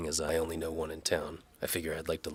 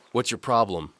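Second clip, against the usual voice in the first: louder, higher sneering guard; spitting contempt; 7 semitones higher, 10 dB louder than usual. Acted. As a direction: spit the words at him. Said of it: "Alaric spits".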